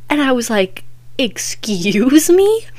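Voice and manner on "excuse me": slow, drawn-out disbelief; incredulous excuse me. Retold or imitated. To the dad's gross answer, slow stunned disbelief. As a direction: stretch it out, stunned.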